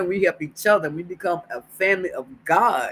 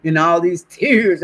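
loud laugh through tears; 2 semitones higher, 7 dB louder than usual. Real, not acted. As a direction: shake off the crying with a laugh. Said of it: "stop being a boo-hoo".

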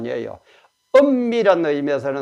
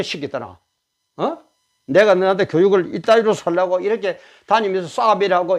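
retold mother yelling; 2 semitones higher than usual. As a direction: scold a drunken grown son in front of the neighbours. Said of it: "이렇게 막 과음을 지르고".

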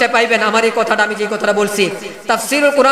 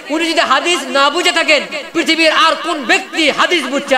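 rising fervour; 4 semitones higher than usual. Real, not acted. Preacher defending Abu Bakr to the crowd, higher and fervent. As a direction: build the case with mounting fervour.

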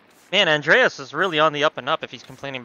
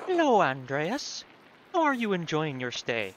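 lightly voiced Hannah. Voices Hannah, game character.

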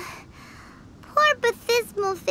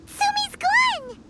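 shocked; 3 semitones higher, slower than usual. Acted. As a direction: gasp it, she's just vanished. Discovers Tsumi has vanished.

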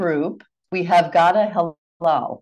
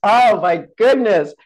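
surprised delight; 4 semitones higher, 6 dB louder than usual. Real, not acted. Delighted by a second question.

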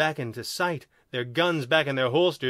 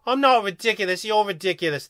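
higher, louder sulky comeback; pouting; 6 semitones higher, 4 dB louder than usual. A narrator's reading. Second alien denying he is ridiculous, pouting. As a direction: pout and throw it back. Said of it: "but he was pouting".

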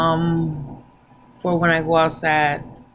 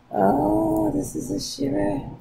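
excited; 9 semitones higher, slower than usual. Real, not acted. Excited reveal of the product.

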